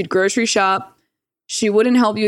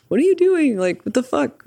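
shocked outburst; 7 semitones higher than usual. Retold or imitated. Imitating someone's shocked reaction.

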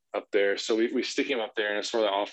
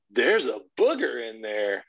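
put-on slow, emphatic little-boy announcement; emphatic kid enthusiasm; slower than usual. Son repeats it to dad, emphatic enthusiastic imitation. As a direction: repeat it with a child's proud emphasis. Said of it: "with the same emphasis and enthusiasm".

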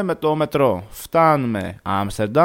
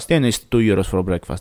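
lower, flat, stunned repeat of "two euros for breakfast"; disbelieving echo; 5 semitones lower than usual. Retold or imitated. Narrator repeating the clerk's price back to her, disbelieving. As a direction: throw the clerk's words back, baffled.

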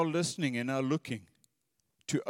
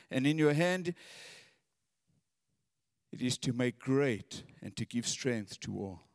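prayerful scripture reading. Acted. Preacher reading scripture aloud to the congregation, reverent.

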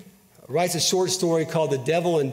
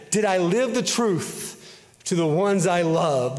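spoken lyrics, raised and emphatic; recited song lyrics; 2 semitones higher than usual. Acted. Preacher recites a favorite song, emphatic recitation. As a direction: declaim the lyrics like a heartfelt creed.

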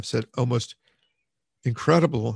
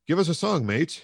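rousing narrated shout; acted shout; 8 semitones higher than usual. A narrator's reading. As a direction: call out to the whole cart. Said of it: "shouted someone in the cart".

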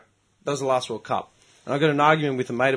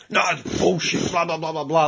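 mocking. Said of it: "this guy was losing his shit".

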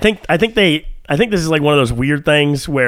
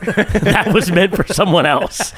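laughing fake text; 4 semitones higher, slower than usual. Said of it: "And I go".

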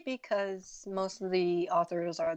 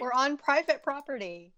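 lazy entitled vocal fry; 6 semitones higher, 4 dB louder than usual. Retold or imitated. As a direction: play the spoiled rich kid. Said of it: "spoken like a true rich kid".

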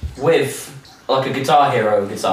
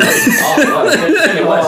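laughing; 12 semitones higher, 5 dB louder than usual. Real, not acted. Laughing at own story.

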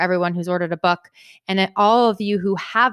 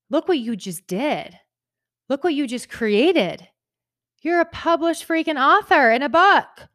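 1 excited self-talk; 7 semitones higher than usual. Retold or imitated. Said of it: "and I'm like".

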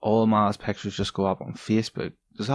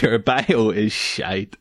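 laughing verdict; much slower than usual. Real, not acted. Blunt verdict through laughter.

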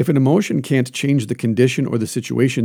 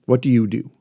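usual speaking voice

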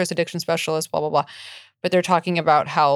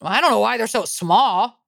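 lightly voiced disapproving mom; a hint of a fussy mother; man doing a woman's voice; 3 semitones higher than usual. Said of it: "Your impression of your mom is so funny".

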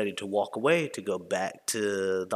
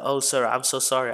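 higher customer-service apology; over-polite, pitched-up retold apology; feigned apology; 4 semitones higher, 4 dB louder than usual. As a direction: lay on a mock-sweet sorry. Feigned apology to guest on phone.

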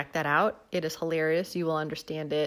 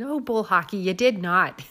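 put-on louder, challenging Midwestern accent; imitated Midwest assistant calling someone out, thick accent; Cheryl Lipinski; 7 dB louder than usual. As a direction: scold in a playful Upper Midwest accent. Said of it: "She challenges him".

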